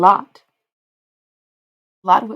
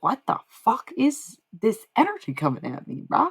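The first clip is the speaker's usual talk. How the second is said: mock bro voice; 5 semitones higher than usual. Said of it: "I was like".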